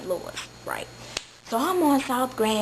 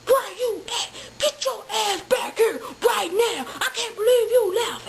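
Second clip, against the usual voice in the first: much higher, laughing mock rant; crazy boyfriend; 11 semitones higher than usual. Boyfriend on the pager demanding she come back, high mock rant. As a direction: imitate a frantic demanding man. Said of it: "it was crazy dude".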